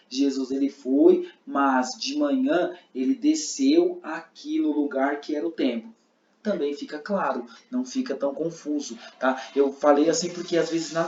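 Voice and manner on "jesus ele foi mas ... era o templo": slow, loud, deliberate phrasing; slow demo reading. Shown as a demonstration. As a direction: spell it out slowly. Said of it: "se os irmãos acharem assim".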